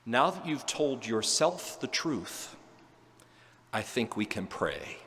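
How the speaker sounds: slow, soft, kindly answer; gentle reply. Retold or imitated. Friend gently answering the crying priest, slow and soft. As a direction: ease him toward prayer. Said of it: "my friend gently smiled and said".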